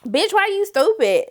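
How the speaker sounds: high, slow, scornful jab; high slow sass; sassy insult. Retold or imitated. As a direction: drag her slowly. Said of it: "then she was like".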